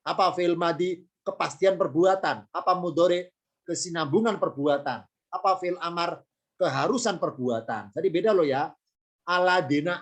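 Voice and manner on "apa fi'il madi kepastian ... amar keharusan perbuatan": call and response drill. Shown as a demonstration. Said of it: "Tentang pelajaran fi'il madi mudhari amar".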